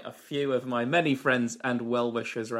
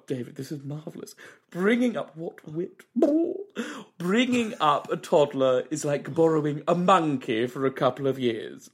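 Michael Holmeal. Acted. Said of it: "It's Mister Michael Holmeal".

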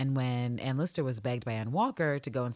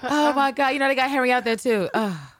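higher and louder, incredulous laughter; amused outburst; 13 semitones higher, 9 dB louder than usual. Real, not acted. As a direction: squeal the last bit way up. Laughing about Harry shoveling too.

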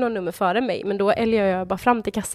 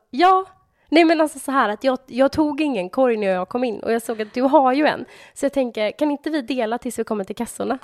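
eager mock pitch; 4 semitones higher, 3 dB louder than usual. Retelling eager request to stranger.

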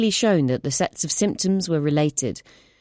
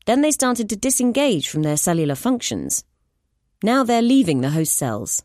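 higher, earnest explaining voice; urgent scientist; 5 semitones higher than usual. Acted. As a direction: lay out the evidence urgently. Clara explains findings.

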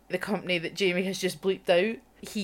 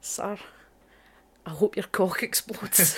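hushed whispered curse. Real, not acted. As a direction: whisper it like a secret hex.

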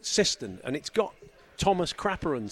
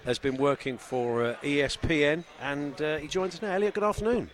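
upbeat radio show opening; radio presenter. Acted. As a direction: open the show like a live broadcaster. Radio show intro over music.

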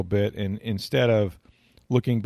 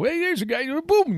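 very high excited outburst; animated Madden. Retold or imitated. Host imitating Madden going nuts, very high excited outburst. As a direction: burst out like a wild color man. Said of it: "Madden was all animated".

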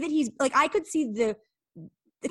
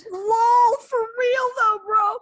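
laughing; 13 semitones higher, 8 dB louder, much slower than usual. Real, not acted. Laughing at friend's joke.

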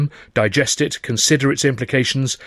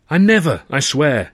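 protesting; 5 semitones higher, 5 dB louder than usual. Acted. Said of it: "he protested".

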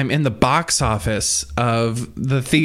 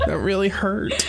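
laughing; 7 semitones higher than usual. Real, not acted. Repeats complaint while laughing.

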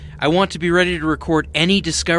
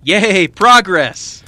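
slow, dry mock yay; deadpan celebration; sarcastic cheer; 3 semitones higher, 8 dB louder, much slower than usual.

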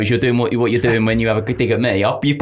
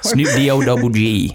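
slow, drawn-out rapper impression; lightly voiced rapper, stretched out slowly; a rapper. Co-host coaxed into a quick impression, slow rapper voice. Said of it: "Do me a Snoop Dogg".

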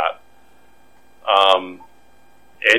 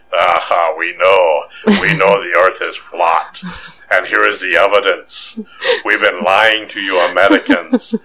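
lightly hammed-up Russian accent; a hint of a bad Russian villain. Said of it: "I thought that was an excellent Russian accent".

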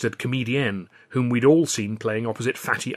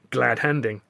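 plain reading voice

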